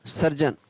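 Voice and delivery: सर्जन with soft j, said softly; सर्जन, geon read as जन; careful pronunciation. Shown as a demonstration. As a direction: say सर्जन ending on जन. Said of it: "इसको क्या पढ़ेंगे".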